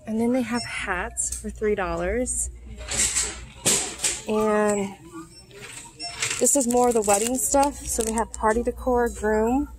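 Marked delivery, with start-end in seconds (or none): 0.1-7.8 talking through a face mask; muffled by a mask; muffled behind mask. Real, not acted. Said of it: "I hope you can hear me with this mask on".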